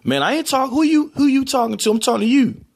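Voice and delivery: high-pitched, confrontational Baltimore accent. Shown as a demonstration. Baltimorean arguing over who's talked to, Baltimore accent. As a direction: play up Baltimore "yew" for every you. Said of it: "Just like that".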